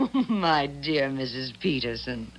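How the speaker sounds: laugh, then purr her name mockingly; a condescending chuckle through the words; amused laugh. Miss Bell laughing at Daisy's naive faith in Emery.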